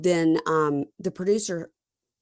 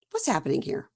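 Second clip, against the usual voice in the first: high, hushed mock confusion; hushed bewilderment; 5 dB quieter than usual. Host puzzling with co-host, hushed bewilderment. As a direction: sigh and sink into a whisper.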